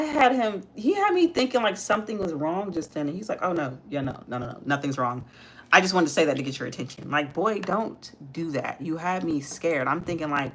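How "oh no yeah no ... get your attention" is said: put-on lower, softer little-boy voice, hurried at the end; imitating son's low tone. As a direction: mimic a sheepish kid brushing it off. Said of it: "he's talking in a low tone".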